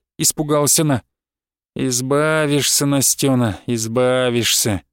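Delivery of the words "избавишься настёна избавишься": slow, low, falsely soothing; mock consoling. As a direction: drag it out like cruel comfort. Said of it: "выворачивая голос до утешения".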